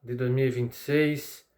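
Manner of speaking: sleepy voice, barely awake. Real, not acted. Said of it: "é que eu tô morrendo de sono".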